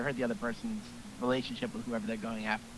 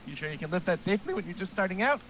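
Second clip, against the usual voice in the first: voice cracking; 7 semitones higher, faster than usual. Real, not acted. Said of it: "my voice cracked a bit".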